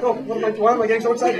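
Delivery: fast, high and loud; noticing the excitement is catching; startled self-check. Retold or imitated. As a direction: catch yourself mid-excitement. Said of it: "I'm like".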